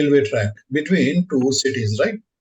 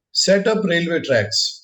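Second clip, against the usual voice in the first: slow dictation; slower than usual. Shown as a demonstration. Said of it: "you write the W B S name as".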